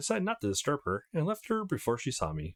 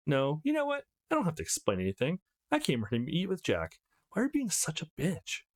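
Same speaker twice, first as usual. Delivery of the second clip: indignant retort; 5 semitones higher than usual. Acted. Darcy snapping back at Jessica in the hallway, indignant. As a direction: pitch jumps up high, defiant.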